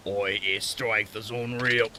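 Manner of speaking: slow, awed Australian thug; Australian accent. Acted. Beaten green-jacket thug marvelling at strength, slow Australian accent. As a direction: say it slowly with an Australian twang. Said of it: "I give him an Australian accent".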